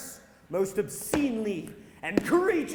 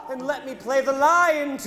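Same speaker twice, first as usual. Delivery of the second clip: ordinary talk, nothing marked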